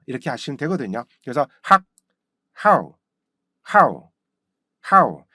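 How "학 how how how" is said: short 학, then punchy falling "how"; abrupt onset on each "how", pauses between; practice drill. Shown as a demonstration. Teacher drills the word for practice, correct "how". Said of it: "이거를 많이 연습해 본다면".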